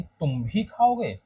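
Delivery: slow "तुम भी खाओगे", तुम leaned on; teacher repeating it with weight on तुम; stress on तुम. Shown as a demonstration. Teacher to students: तुम stressed, slowly. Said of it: "तुम पर जोर दे रहा है".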